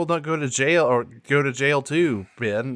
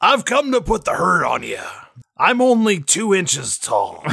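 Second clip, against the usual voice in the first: Deitysaurus Flex; 4 semitones higher than usual. Acted. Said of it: "Deitysaurus Flex".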